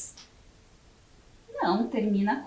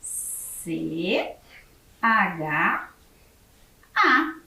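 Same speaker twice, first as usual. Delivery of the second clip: spelling out letters; 3 semitones lower, much slower than usual. Shown as a demonstration. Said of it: "Como eu escrevo chá?".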